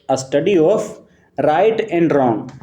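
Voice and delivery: drags out each word of the phrase; slow emphatic repeat. Shown as a demonstration. Teacher slowly repeats key words for students.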